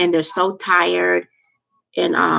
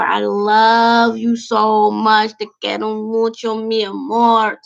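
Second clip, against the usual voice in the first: very slow, drawn-out declaration of love; gushing affection; 3 semitones higher, 3 dB louder, much slower than usual. Real, not acted. Host thanks viewers who stayed an hour, gushing affection. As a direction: stretch the words out in a lilting, doting croon.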